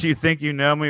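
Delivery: intense wrestler catchphrase, "think" leaned on; Edge catchphrase. Retold or imitated. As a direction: hit "think" like a wrestler's threat. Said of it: "with Edge, it's".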